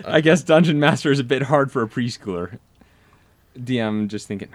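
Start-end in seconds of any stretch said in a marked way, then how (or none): 0.1-2.6 higher, louder apologetic friend; player voice. Retold or imitated. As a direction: sheepishly ask a late favor.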